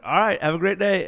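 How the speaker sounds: student mock-cheerfully dismissing the cadets; sarcastic cheer. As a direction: say it with fake brightness as you walk off. Sarcastic farewell.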